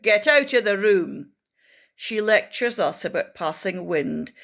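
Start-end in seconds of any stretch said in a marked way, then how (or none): 0.0-1.3 stern teacher. Acted. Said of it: "Says Miss Perfect".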